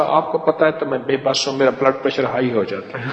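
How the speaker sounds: quiet, half-laughing mock excuse; mock helpless excuse. A slapper excusing himself, mock helpless and chuckling. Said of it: "تین چار تھپڑ مار کے کہتا تھا".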